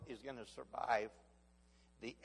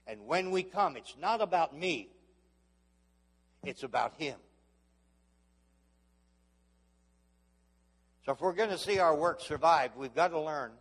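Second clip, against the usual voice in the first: higher and louder fervent push; fervent preaching; 5 semitones higher, 8 dB louder than usual. Acted. Preacher pressing the congregation, fervent. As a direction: fire the point at the crowd.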